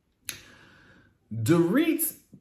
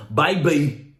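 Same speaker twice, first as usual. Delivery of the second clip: mocking lovey-dovey voice; 3 semitones higher, much slower than usual. Vlogger mocking the couple's pet talk, cooing. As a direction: coo it like a mock sweetheart. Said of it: "why do y'all talk like this?".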